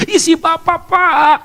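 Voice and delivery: lightly voiced panicky student; nervous student. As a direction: blurt it out like a rattled student. Frightened student answers the lecturer.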